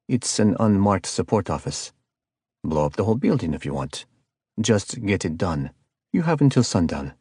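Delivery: lightly voiced cold caller with a hint of South American accent; icy calm villain. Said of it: "The tone was calm and icy cold".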